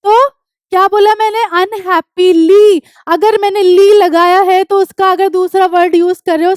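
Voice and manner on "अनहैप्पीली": अनहैप्पीली slowly, with the final ली drawn out; emphatic word ending. Shown as a demonstration. Teacher reminds students of the adverb, अनहैप्पीली slow and emphatic on ली. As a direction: stretch अनहैप्पीली out so the ली ending stands clear.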